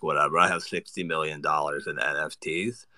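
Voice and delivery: slow, swaggering bro drawl with a thick tongue; a cocky Jake Paul impression. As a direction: talk like bees stung your tongue. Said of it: "That's my Jake Paul".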